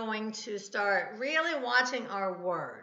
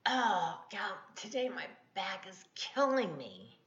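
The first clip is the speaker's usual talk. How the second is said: acted groaning complaint about aches; mock complaint; 4 dB quieter than usual. Example of what not to say about a sore back, mock weary complaint. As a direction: moan lightly as if worn out by pain. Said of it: "not say things like".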